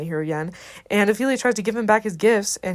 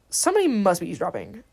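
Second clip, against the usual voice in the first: unhurried, deliberate delivery; spaced-out, wary announcement; measured suspicion. Retold or imitated. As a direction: spell out the suspicion. Line retaken at another pace.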